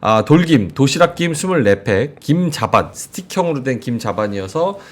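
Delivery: upbeat live sales pitch, key words stretched; conversational host-read commercial; sponsor ad read. Acted. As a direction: pitch the product to viewers.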